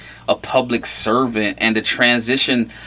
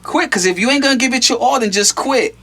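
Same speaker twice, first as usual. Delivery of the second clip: retold blunt advice; 10 semitones higher than usual. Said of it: "I would tell him".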